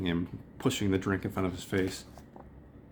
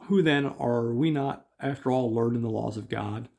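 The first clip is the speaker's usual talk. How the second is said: put-on higher, louder old rabbi; lightly voiced elder, higher; old rabbi reasoning; 4 semitones higher, 3 dB louder than usual. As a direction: argue it like a sly elder. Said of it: "another guy's".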